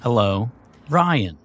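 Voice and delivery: slow flat robot voice. Acted. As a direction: speak like a talking computer. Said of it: "You sounded like a robot".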